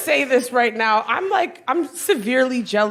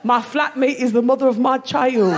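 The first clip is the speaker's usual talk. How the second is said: broad put-on London accent; mock London accent, each item announced; guessed London accent. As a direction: read it like a London lad's dating profile. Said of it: "guess what his accent is".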